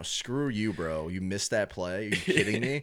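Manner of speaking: angry fan rant. Retold or imitated. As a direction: heckle the player like a furious fan. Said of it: "We're like".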